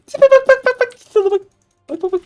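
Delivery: very high, giggly squeal; high mocking squeal. Real, not acted. Streamer jeers at the opponent's looks, high mocking squeal. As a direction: squeal the taunt through laughter.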